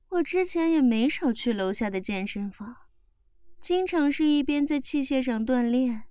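ordinary delivery

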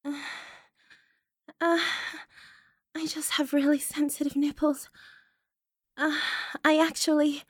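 normal talking voice

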